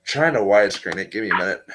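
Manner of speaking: muffled behind a hand; hand over mouth. Real, not acted. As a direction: speak through your hand, muffled. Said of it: "with your hand over your mouth, you're muffled".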